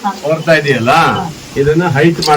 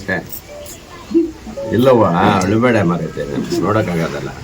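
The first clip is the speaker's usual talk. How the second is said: reassuring; 9 semitones lower than usual. Real, not acted. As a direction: tenderly promise help to stop her tears. MLA reassuring crying old woman.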